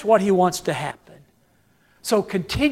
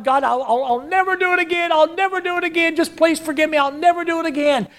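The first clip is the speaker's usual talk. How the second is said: high, fast pleading promise; mock desperate pleading to God; begging prayer; 5 semitones higher, much faster than usual. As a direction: rush the promise like a desperate plea.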